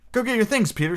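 high-pitched, mildly agitated order; shaken cry. A narrator's reading. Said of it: "she cried, shaking".

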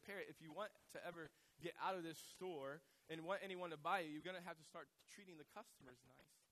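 loud, stern telling-off; scolding manager. Acted. Store manager warning the parrot, loud acted scolding. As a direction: lay down the law loudly, acted.

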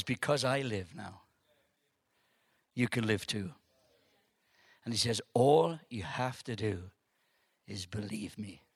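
low, calm, spaced-out delivery; gentle assurance. Retold or imitated. Preacher quoting risen Jesus to the audience, gently.

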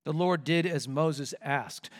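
again slowly, weight on "Lord"; slow, awed repeat. Shown as a demonstration. Preacher repeating the verse slowly for emphasis. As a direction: let "The Lord did as Moses asked" sink in. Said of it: "that's just astonishing".

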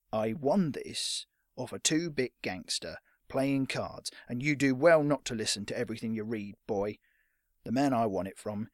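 lightly voiced rough-accented veteran; grudging, measured telling-off; scowling old fighter. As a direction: put the boy in his place. Scowling old fighter rebukes boy.

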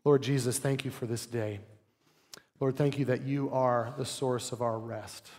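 soft, reverent prayer voice; closing prayer. Real, not acted. Pastor praying for the congregation, soft and reverent. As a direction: pray it gently over the church.

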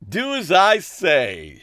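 put-on high, slow, girlish lilt; coy and girlish. A narrator's reading. Ariana giggly quip.

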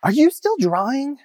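high, loud imitation of a teacher calling out; retold shout. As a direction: mimic a teacher shouting across to a former student. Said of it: "she shouts at me".

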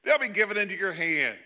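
overdone rallying call, insincerely triumphant; sarcastic. Acted. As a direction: proclaim victory with mock gusto. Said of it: "there must have been some sarcasm in his voice".

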